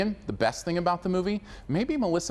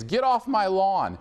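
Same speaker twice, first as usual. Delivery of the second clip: higher, drawn-out mock holler; stretched-out yell, only half in earnest; mock old-man yell; 6 semitones higher, 4 dB louder, slower than usual. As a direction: imitate an old man yelling at kids. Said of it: "old men have been yelling to kids".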